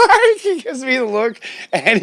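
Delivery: talking through real laughter, high and loud; can't stop laughing at the dog. Real, not acted. Laughing at the dog's look.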